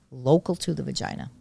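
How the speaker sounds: firm, measured stress on "local to the vagina"; deliberate weight on "local" and "vagina"; emphatic. Real, not acted. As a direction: underline "local to the vagina" without raising the voice. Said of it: "I'm emphasizing that".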